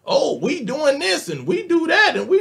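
high-pitched mock bragging; mocking boast. Speaker mimicking immigrants who like to talk big, mocking.

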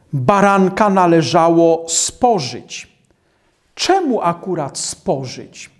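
normal talking voice

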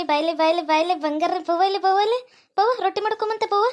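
put-on high, slow cooing to a baby; grandmother's sing-song baby talk. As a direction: coo sweetly to the little one.

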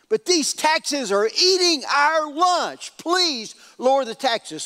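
acted petition, increasingly insistent; earnest pleading. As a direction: plead the case, rising toward a stretched-out please. Tribal leaders plead with new king.

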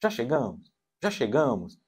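softly repeated pestering question; impatient child. Acted. Child asking parents about arrival, lightly imitated nagging. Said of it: "a criança não consegue entender assim".

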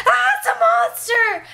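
very high, loud, slow mock terrified shriek; scared toddler scream. The three-year-old frightened by a balloon, a high slow mock scream. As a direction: shriek like a toddler seeing a monster. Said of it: "she's just like".

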